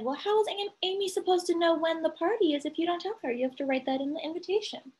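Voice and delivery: a touch of a lecturing mother; explaining mother. Acted. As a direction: set him straight like a patient mom. Teacher voices mother's scolding paraphrase.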